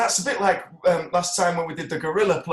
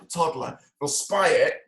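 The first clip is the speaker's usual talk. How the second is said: pelican with full pouch. Pretend. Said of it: "this is me as a pelican".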